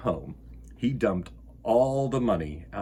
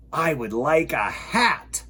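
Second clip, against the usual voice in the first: slow, thoughtful bear voice; Bear's reply; 2 semitones higher, 3 dB louder than usual. Acted. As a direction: decides on a hat. Bear replies.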